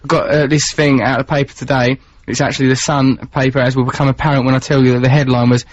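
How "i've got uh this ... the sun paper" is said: usual speaking voice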